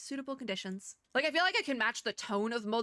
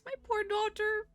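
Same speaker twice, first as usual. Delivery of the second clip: high, drawn-out cooing pity; mock pity; 12 semitones higher than usual. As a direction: coo over a poor little character. Pities the crying game character.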